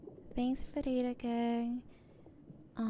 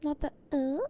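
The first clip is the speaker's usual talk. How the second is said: loud, raised attempt at a white American girl accent; 4 semitones higher, 6 dB louder than usual. Streamer trying the sound for chat, mock white girl accent. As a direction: try out a short white girl "uh?". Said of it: "I forgot how the white girls do it".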